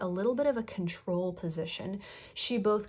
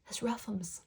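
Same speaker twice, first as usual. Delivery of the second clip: whispered; 6 dB quieter than usual. Real, not acted. Playful comment on losing credit.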